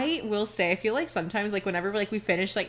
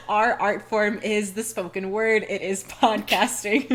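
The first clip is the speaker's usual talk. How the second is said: mock pompous artist; 3 dB louder, slower than usual. Mock pretentious artists quote, slow.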